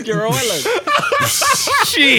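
high squealing laughter; laughing. Real, not acted. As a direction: crack up mid-sentence. Friends cracking up.

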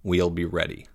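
low, soft mutter. A narrator's reading. Boy holding spear, waiting for attack, muttering. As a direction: mutter it under your breath. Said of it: "muttered Jake".

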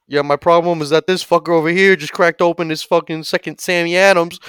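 high, loud indignant rant; aggrieved complaint. Acted. Frat guy airs his alcohol problem, loudly indignant. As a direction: gripe like you have been cheated.

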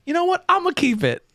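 high-pitched comic character voice; imitated prank caller. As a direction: pitch it way up, then come down slightly. Imitates prank caller Wanda Sykes.

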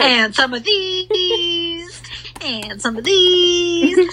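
slow, giggling repeat; laughing through words. Real, not acted. Friend laughing at a cringey book passage, giggling slowly. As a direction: drag it out while laughing.

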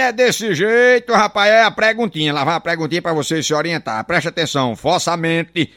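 ordinary delivery

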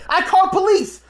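high mock threat; mimicking the aunt. Aunt threatening police, in a high mock voice. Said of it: "I'm like, I'm like".

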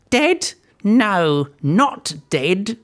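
put-on high, icy old hag; a chilling witch correcting the queen; cold witch voice. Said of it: "Griselda said coldly".

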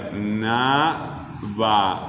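"gobernaba" very slow and low, split go-ber-na-ba; syllable by syllable. Shown as a demonstration. Teacher hunting for the stressed syllable, "gobernaba" syllable by syllable. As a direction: chop "gobernaba" into long, even syllables. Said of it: "no encontrábamos la sílaba".

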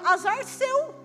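high-pitched cheeky comeback; teasing retort. Retold or imitated. Pastor retorts to a church sister, teasing comeback. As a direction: toss it off high at her.

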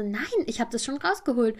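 mildly baffled insistence, imitated; lightly acted confused protest; retold confusion. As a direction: imitate someone puzzled but sure of themselves. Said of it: "die war so voll verwirrt".

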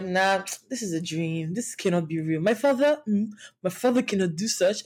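put-on a light Nigerian accent on her child self's disbelief. Retelling her child self's shock at her dad, light Nigerian accent. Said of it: "I don't know why I did that accent".

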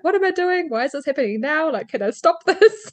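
high, rising frantic questions; half-laughing mock panic; retold panic. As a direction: replay the panic, voice pitched well up. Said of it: "very much panicking".

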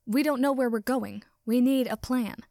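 loud urgent insistence. Acted. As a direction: push it, worried and loud. Ida clanging, urgent.

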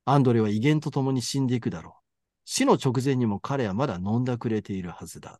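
measured literary read-aloud; story narration. A narrator's reading. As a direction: read the passage out evenly, like a narrator. Reads a passage from the novel. (小説を朗読する落ち着いた語り口)

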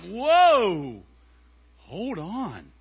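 startled, soothing whoa to a crying daughter; calming dad. Retold or imitated. Dad calming his crying daughter after a lost game, startled then soothing. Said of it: "I'm like".

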